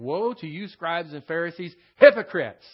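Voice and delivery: preacher thundering Jesus' woe at the Pharisees; shouted denunciation. Shown as a demonstration. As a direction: build to a loud shout on hypocrites. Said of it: "you gotta put that kind of emphasis on it".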